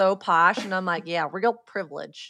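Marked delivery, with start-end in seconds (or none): 1.1-2.3 put-on trying-hard American accent. Repeating own earlier reply: put-on American accent. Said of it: "I'm trying to sound as American as I can".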